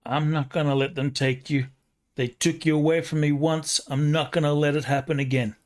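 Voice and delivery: put-on New York accent. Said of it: "In a super thick New York accent".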